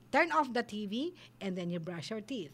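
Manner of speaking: low, even instruction; calm firm voice. Shown as a demonstration. Parent telling child to turn off the TV, calm and firm. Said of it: "at firm voice".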